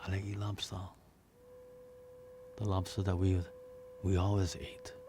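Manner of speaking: soft, almost whispered longing; child pining for lobster; wistful plea. Acted. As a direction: ask quietly, trailing into a whisper. Boy wistfully asking for lobster.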